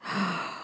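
soft gasp; quick shocked intake of breath; imitated gasp. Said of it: "it was a gasp".

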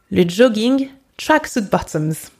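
"Le jogging" said the French way; French vowels on "Le jogging"; French-style Franglish. Shown as a demonstration. Teacher reading Franglish to learners, French pronunciation. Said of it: "you can use".

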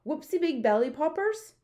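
high, loud giant's question; eager questioning. A narrator's reading. BFG asks Air Force head about helicopters, excitedly. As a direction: ask with big, rising excitement.

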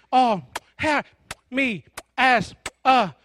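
words jerked out one by one; squeezed, interrupted boy. Acted. Son giving his speech while dad kisses him, interrupted. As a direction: push out each word between smothering kisses. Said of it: "he's all wrapped up like this".

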